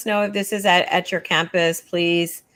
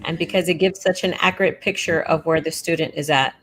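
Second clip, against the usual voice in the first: deadpan sarcasm, in a near-usual voice; sarcastic; 2 semitones lower than usual. Real, not acted. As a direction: feign sincere agreement, understated. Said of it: "That was sarcasm".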